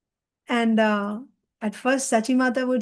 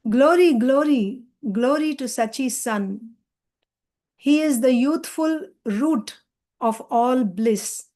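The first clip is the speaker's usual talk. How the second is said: slow, deliberate reading of a hymn; devotional recitation; slower than usual. Acted. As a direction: read out sacred verse slowly, phrase by phrase. Reads today's devotional song.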